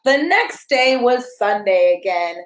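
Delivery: bright, sing-song picture book reading; reading to a child. Acted. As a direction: read it like bedtime story time for a toddler.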